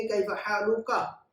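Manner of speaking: slow, careful कैफ़ हालुका; slow model phrase. Shown as a demonstration. Teacher slowly models the greeting for one man. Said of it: "एक मर्द से कहेंगे".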